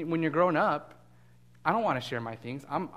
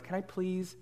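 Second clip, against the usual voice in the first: put-on a light, sweet little-boy ask; sweetest voice; 3 semitones higher, 3 dB quieter than usual. Shy little boy asking a girl for her scooter, sweetly. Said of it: "like, in the sweetest voice".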